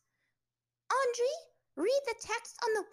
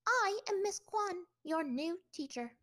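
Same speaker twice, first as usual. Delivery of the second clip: scolding teacher; 9 semitones higher, 5 dB louder than usual. Acted. Teacher scolds rude new pupil.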